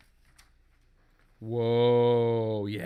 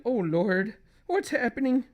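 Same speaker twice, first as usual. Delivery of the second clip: high comic husband voice; 8 semitones higher than usual. Acted.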